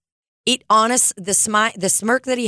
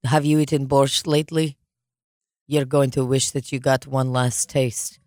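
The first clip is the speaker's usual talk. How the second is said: mock villain threat; 5 semitones lower than usual. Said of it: "They say".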